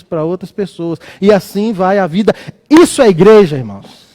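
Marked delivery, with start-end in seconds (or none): 2.7-4.1 loud, firm declaration; emphatic preaching. Real, not acted. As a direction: proclaim it to the congregation. Preaching climax to congregation.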